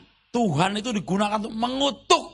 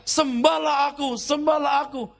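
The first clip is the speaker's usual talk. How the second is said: mock prophet voice; 6 semitones higher than usual. Mocking a prophet's words, raised.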